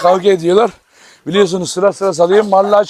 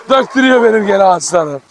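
laughing while talking. Real, not acted. Laughing at donkey's antics.

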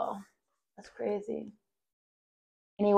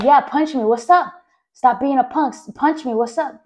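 mock taunt; 5 semitones higher, 3 dB louder than usual. Taunting the friend's brother to fight.

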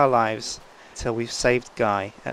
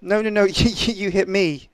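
alarmed laughing protest; 8 semitones higher, 3 dB louder than usual. Real, not acted. Friend hits him in game.

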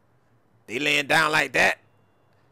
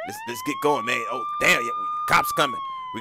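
squeaky high voice; faster than usual. Acted. Voice pitched way up.

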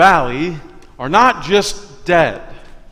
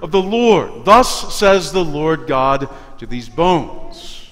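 prophetic proclamation. Acted. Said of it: "and say to them".

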